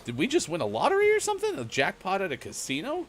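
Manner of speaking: excited. Real, not acted. Excited about game buzzers.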